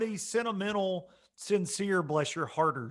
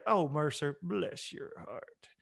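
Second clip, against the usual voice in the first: soft Southern jab; 2 semitones lower, 6 dB quieter, slower than usual. Retold or imitated. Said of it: "that in Knoxville say".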